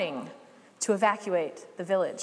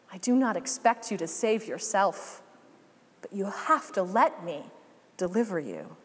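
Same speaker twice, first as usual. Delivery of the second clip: voice of God. Acted. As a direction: speak gently to a stubborn beloved child. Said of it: "the voice of God says".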